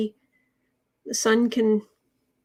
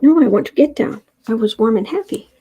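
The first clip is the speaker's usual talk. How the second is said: voicing the cat; 6 dB louder than usual. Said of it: "He's like".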